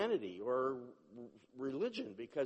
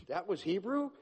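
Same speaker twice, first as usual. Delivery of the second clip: high, loud, amazed "That was Hebrew?"; the man marvelling at his own tongues; stunned and thrilled, a notch higher; amazed question; 6 semitones higher, 6 dB louder than usual. Retold or imitated. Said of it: "He was more amazed".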